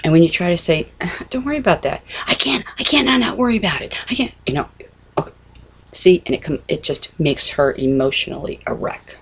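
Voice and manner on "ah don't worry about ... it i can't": anxious daughter. Retold or imitated. Anxious daughter voiced in story.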